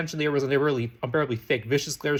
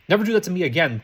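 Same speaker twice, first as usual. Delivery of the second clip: angry; 4 semitones higher, 6 dB louder than usual. Acted. Draco shoving friend into soup.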